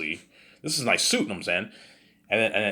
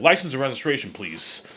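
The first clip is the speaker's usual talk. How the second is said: stern cop; 5 semitones higher, 4 dB louder than usual. Acted. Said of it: "he's like".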